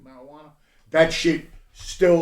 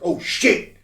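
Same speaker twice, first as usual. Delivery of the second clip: higher, louder shocked cry; a slow, rising Motherfucker; retold alarm; 6 semitones higher, 9 dB louder, slower than usual. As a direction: relive the jolt of shock. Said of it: "I was like".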